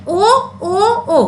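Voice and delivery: "O" as a long pure vowel, said separately each time; isolated vowel sound. Shown as a demonstration. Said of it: "O sound is repeated in this line".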